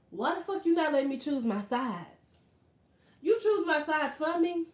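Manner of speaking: annoyed customer arguing about her sides; indignant complaint. Real, not acted. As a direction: demand to know why she can't choose.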